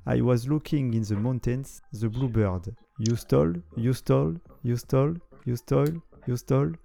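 chante les paroles traduites avec un faux accent texan, lentement; Texas accent. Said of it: "j'ai un accent américain du Texas". (accent texan exagéré pour rire)

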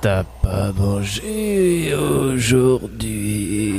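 zombie. Acted. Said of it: "Zombibou et Zombibounet".

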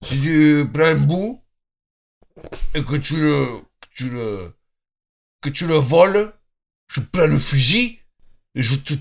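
put-on halting rustic Cantal accent. Cantal local warning a cheese thief, halting mock Cantal accent. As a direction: play a menacing cheese farmer from Aurillac. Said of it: "ils parlent vraiment comme ça".

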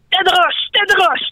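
high, hissed Gollum-like cry; creature cry. Acted. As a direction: croak it like a cave creature. Créature qui siffle son cri. (cri de créature aiguë, à la Gollum)

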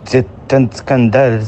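halting mock German accent. Learner retries the test line, attempted German accent. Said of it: "J'ai jamais essayé de faire l'accent allemand".

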